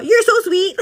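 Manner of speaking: high, loud, laughing gush; delighted laughing. Real, not acted. Thanking a viewer's comment, laughing.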